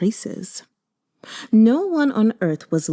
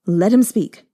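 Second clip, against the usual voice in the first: spat; 4 dB louder than usual. Acted. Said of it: "as he spat each word".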